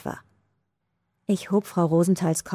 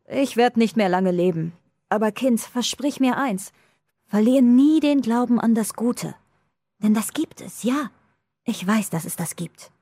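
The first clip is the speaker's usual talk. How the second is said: lightly voiced old woman, higher and earnest; a hint of a frail old woman pleading; dying old woman; 4 semitones higher than usual. A narrator's reading. Dying woman makes the girl promise, a lightly voiced plea.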